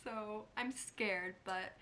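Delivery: talking with a retainer in; slight lisp on s sounds. Real, not acted. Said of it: "please ignore the lisp".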